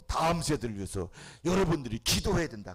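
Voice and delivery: ordinary talk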